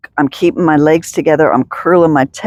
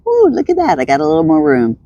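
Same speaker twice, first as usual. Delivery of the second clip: delighted discovery; faster than usual. Pretend. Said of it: "all of a sudden I'm like".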